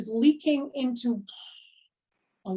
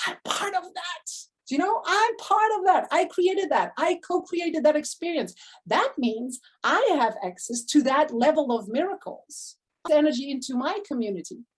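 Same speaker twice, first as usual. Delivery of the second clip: higher, eager self-talk; excited inner voice; 4 semitones higher than usual. Retold or imitated. Coach voicing her own thrilled thoughts about her client's success, higher. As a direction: lift it up with joy as if claiming the win. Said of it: "Or I'm like".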